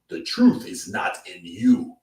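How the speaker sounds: lightly voiced solemn pronouncement; a touch of preacher gravity; Don Charles impression. Streamer mimicking Don Charles condemning the boxer, solemn. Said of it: "Like Don Charles".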